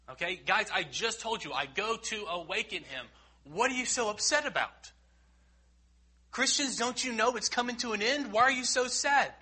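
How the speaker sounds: high, loud, scolding impatience; mock impatience. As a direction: scold the sad crowd with mock annoyance. Mock impatient Jesus, then Christians.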